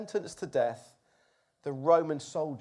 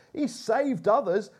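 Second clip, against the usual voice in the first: scoffing; 5 semitones higher, 4 dB louder, slower than usual. Acted. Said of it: "they scoffed".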